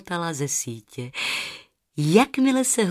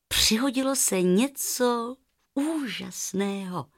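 put-on reading to children. A narrator's reading. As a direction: draw the little listeners into the tale. Narrator opens story for children. (klidné vyprávění pro děti)

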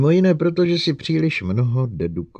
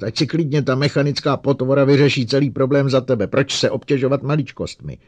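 loud sarcastic yelling; angry shout; 6 semitones higher, 8 dB louder than usual. A narrator's reading. Bogart shouting sarcastically at his colleague. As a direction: spit the sarcasm loudly. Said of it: "křičel Bogart".

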